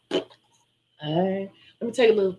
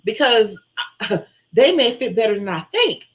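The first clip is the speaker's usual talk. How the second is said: laughing, louder, it might fit after all; laughing realization; 4 dB louder, slower than usual. Retold or imitated. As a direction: giggle through the sudden hope. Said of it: "I said".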